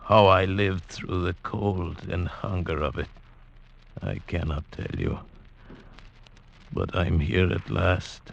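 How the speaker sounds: reflective storyteller voice; story narration. Acted. Nunez recounting his climb out of the valley, reflective. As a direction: tell it as a remembered journey.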